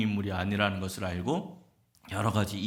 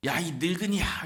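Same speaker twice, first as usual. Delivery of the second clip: high-pitched retold angry outburst; mock angry yell; 8 semitones higher than usual. Pupil cursing his old teacher, a staged angry yell. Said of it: "소리를 지르면서 욕을 합니다".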